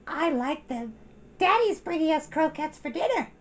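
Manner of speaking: put-on high child's voice, a bit proud; little girl boasting to her teacher; self-important little girl. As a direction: say it like a proud small child showing off. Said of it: "a bit self-importantly".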